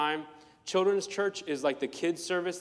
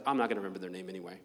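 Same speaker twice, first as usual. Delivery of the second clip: low, very fast throwaway line; rushed dismissive mutter; 9 semitones lower, 4 dB quieter, much faster than usual. Retold or imitated. Meeting new people and not caring, fast mutter. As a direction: rattle it off under your breath. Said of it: "you're just like".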